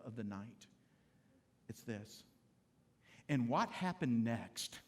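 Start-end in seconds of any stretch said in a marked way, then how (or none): 3.3-4.8 romantic question. Shown as a demonstration. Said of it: "the most romantic words you'll ever speak to your wife".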